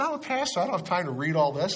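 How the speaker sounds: high, exaggerated protest of a busy pastor; mock indignant. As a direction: squeal it as if the idea is absurd. Retold protest to teacher.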